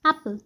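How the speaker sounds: brief open A in "एप्पल"; short A. Shown as a demonstration. Teacher contrasting it with the long A, short A. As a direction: keep the first vowel of "एप्पल" short. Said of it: "short pronunciation".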